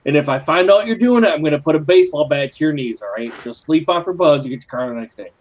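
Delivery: PSA. Acted. Recites his drink-driving PSA.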